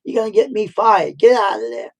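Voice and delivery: mock frantic shouts to a kid on the tractor; hammed-up panicked boss; frantic yelling. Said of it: "he went totally fran-, frantic".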